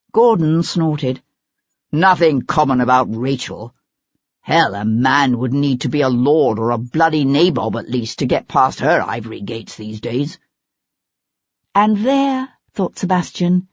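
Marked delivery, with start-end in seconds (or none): 1.9-10.4 lightly voiced bitter actor, sneering at the end; a hint of a jilted lover, crude and dismissive; scornful actor. Gordon's held voice.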